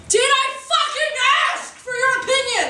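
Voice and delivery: high, sharp mock snap; snapping retort. Fantasy comeback to a catcaller, snapped high. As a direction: bite back at the compliment in a high voice.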